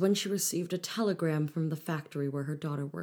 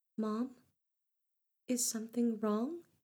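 quiet, soft, frightened, pitched-up little voice; 6 semitones higher, 4 dB quieter than usual. Milada, the youngest daughter, speaks to her mother: soft and scared. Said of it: "the next words out of Milada's mouth were soft and scared".

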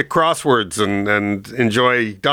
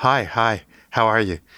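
slow, faraway, vacant, checked-out delivery, miles away; 2 semitones lower than usual. Retelling meeting Andy Kaufman, who greeted them absently: imitating Andy Kaufman sounding distant. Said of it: "just off in the distance kind of thing".

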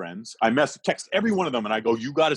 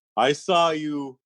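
heavy, thick put-on French accent, laid on thick; 3 semitones higher, 3 dB louder than usual. Retelling what a man said when he came up after a show, imitating a thick french accent. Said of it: "in his thick French accent".

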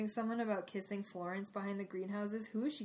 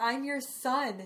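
acted-out screaming outburst, yelled out; 3 semitones higher, 3 dB louder than usual. Retelling a son screaming at his father Crouch: imitating someone screaming. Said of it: "screaming at Crouch".

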